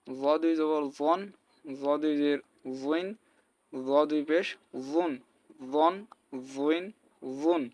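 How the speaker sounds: জন, জুইন, জুন with a heavy, rounded Arabic z; full emphatic z on জন, জুইন, জুন; thick za. Shown as a demonstration. Teacher demonstrating a heavy letter, জন, জুইন, জুন said thick. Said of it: "এটাও মোটা হবে".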